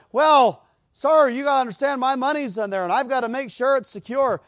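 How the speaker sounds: high, loud protest to the officer; loud pleading. Retold or imitated. Anxious man protesting loudly to the policeman. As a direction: raise your voice high, defending yourself.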